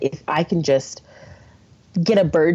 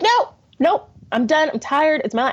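mock outrage; 10 semitones higher than usual. Retelling to her friend her pregnant outburst, high indignant protest. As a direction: play your furious past self refusing.

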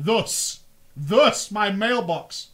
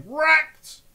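macro yell; 7 semitones higher, 6 dB louder than usual. Retold or imitated. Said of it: "Slash Y".

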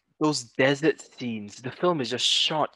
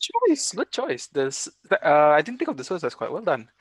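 proud parent; 2 semitones higher than usual. Acted. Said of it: "I sound like a proud parent".

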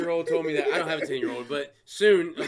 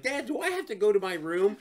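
put-on kid's whine; 6 semitones higher, 3 dB louder than usual. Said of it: "she'll be like".

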